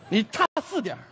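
usual speaking voice

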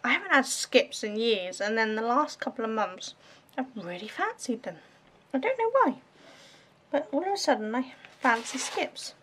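talking while munching crisps; words around a mouthful of crunchy snack; crunching chips. Real, not acted. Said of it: "Sorry if you hear me crunching the Skips".

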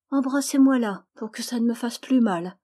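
put-on a little girl asking for a kiss in dead earnest; little girl's high, earnest plea. A narrator's reading. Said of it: "dit-elle avec un grand sérieux".

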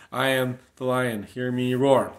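loud, roaring declamation with big falling shouts; preaching at full force, shouting; shouted proclamation. Acted. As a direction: roar each line out like a battle cry.

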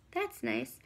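low, lazy snail; deep indifferent snail. Acted. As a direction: drop way down like an unbothered snail. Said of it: "said the snail".

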